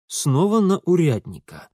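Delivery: plain reading voice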